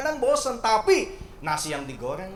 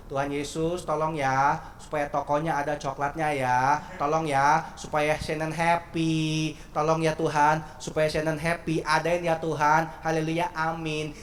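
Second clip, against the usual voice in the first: put-on child's pleading prayer; slower than usual. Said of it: "tiba-tiba dia doa begini".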